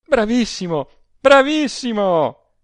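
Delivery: high, loud, exultant praise; exclaiming amid laughter. A narrator's reading. Adele hails Rossani after forced laughter, exclaiming gleefully. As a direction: hysterical glee, stretching the second word. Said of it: "esclamò ella ancor tra le risa".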